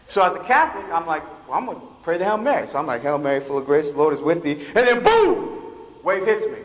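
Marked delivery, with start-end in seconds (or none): none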